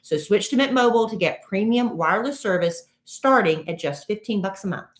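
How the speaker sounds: punchy, measured sponsor read; podcast ad read. Acted. Host to listeners pitching a phone sponsor, ad read. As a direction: sell it, spacing out the web address.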